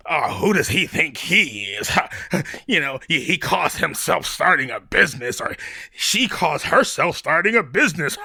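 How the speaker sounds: mock the doubters who gossip. Gossiping neighbours sneering at someone starting a business, mocking. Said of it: "People are gonna talk".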